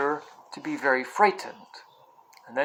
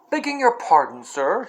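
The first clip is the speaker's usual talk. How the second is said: cockney cabbie; 3 semitones higher than usual. Acted. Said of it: "sharp, quick voice of a cockney".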